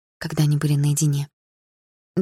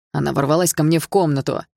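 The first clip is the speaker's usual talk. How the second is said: starting to boil. Acted. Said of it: "начал закипать парень".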